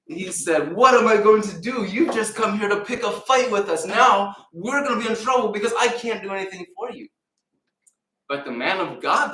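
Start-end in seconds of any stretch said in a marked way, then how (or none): 0.7-7.1 high, loud frantic cry of a king; a frightened king wailing to the visitor; panicked king. Acted. King panicking at the foreign general, high and loud.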